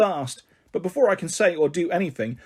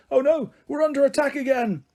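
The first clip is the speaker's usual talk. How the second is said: much higher, louder alarmed cry; panicked yell; 11 semitones higher, 3 dB louder than usual. Acted. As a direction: yell in panic at the flying marshmallows. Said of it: "puts up his hands and yells".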